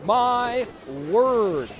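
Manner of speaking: high, loud burst of amazement; excited exclamation. Real, not acted. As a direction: let it explode out, genuinely stunned. Caster reacting to huge play.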